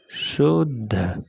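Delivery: अशुद्ध drawn out slowly; slow careful word. Shown as a demonstration. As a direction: stretch अशुद्ध syllable by syllable. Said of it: "इस type में अशुद्ध लिखा हुआ है". (अशुद्ध को धीरे-धीरे खींचकर)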